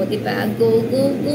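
playful imitation, stretched last word; Rufa May. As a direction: lightly mimic a comedienne's catchphrase. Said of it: "Kaya ko rin po kasi siyang gayahin".

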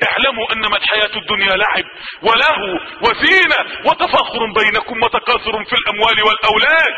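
chanted verse about worldly life; Quran recitation. Acted. Preacher voicing God's call to the heedless, chanted.

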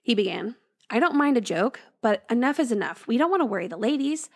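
storyteller reading a ghost tale; story narration. A narrator's reading. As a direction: read it like a spooky bedtime story. Reads a ghost story aloud.

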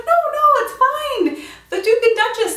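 calm her down in a lifted sweet voice; kindly old lady. Retold or imitated.

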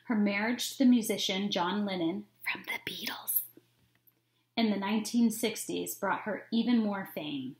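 put-on reading a picture book aloud to kids; storybook reading. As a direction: read it like story time for children. Teacher reads picture book aloud.

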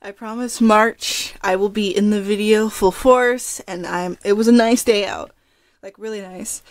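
breathless after running upstairs; panting between words; out of breath. Real, not acted. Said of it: "I'm out of breath".

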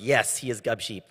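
flat, machine-like omnipotent voice; robot voice. Retold or imitated. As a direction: speak like an all-knowing robot. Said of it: "in his omnipotent, uh, robotic voice".

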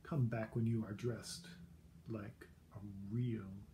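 snooty prince. Acted. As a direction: look down your nose at her. Snooty prince scolding Elizabeth.

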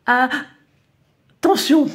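loud, very slow stretched warning cry; drawn-out warning. Acted. Sneezing man cries a warning at the lady, loud and stretched. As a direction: call out a long warning.

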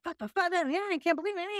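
hammed-up fit of frustration from a cheated con man; mock tantrum. Con man cheated of his money, mock tantrum. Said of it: "throws a fucking tantrum".

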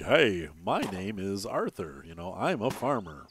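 imitating a slow, deliberate educated voice; mock over-enunciated introduction without any country accent; educated, accentless farmer. Player imitating his farmer character, slow and educated. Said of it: "very educated, like, non, you know, country boy accent".

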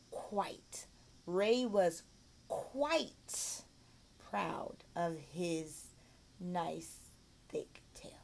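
QUITE set apart and carefully sounded, then each word separate; pronunciation model. Shown as a demonstration. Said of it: "then help them with pronunciation".

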